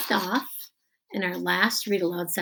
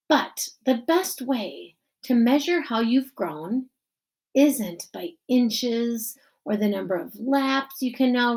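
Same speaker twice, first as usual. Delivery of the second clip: lightly voiced principal at a podium; formal speech, a touch higher; principal giving speech; 4 semitones higher, 4 dB louder than usual. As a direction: address the crowd as the principal.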